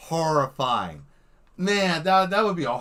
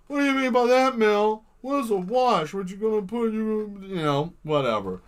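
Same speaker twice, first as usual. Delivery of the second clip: high questioning voice; 6 semitones higher than usual. Acted. Imagined viewer asks Mel.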